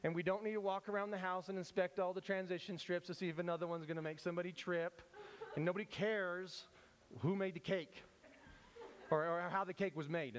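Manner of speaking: exasperated mock rant; pretend offended. Bystander fed up with the teacher's cake lecture, mock offended. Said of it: "that one is easy to get offended at".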